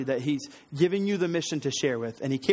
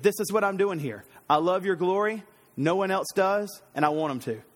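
plain declaration, slightly higher at first; straightforward statement; 3 semitones higher than usual. Acted. Preacher voices Elijah stating his mission, straightforward. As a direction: state it simply, taken at his word. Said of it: "it can be just straightforward".

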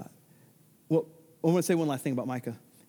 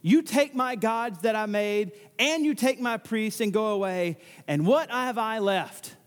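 slow, higher, mild grief; tragic lament; 4 semitones higher, slower than usual. Retold or imitated. Micah bemoaning his stolen gods, slow and mildly grieving. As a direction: plead it out slowly, a touch of despair. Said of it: "This is tragic".

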